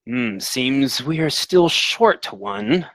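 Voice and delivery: slow, unhurried noble drawl; a hint of a cold lord sizing up the room; measured lord voice. Lightly voiced lord noting a guest is missing.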